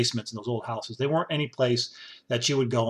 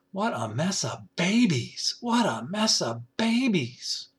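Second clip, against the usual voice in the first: exasperated; 4 semitones higher, slower than usual. Real, not acted. Exasperated at senators.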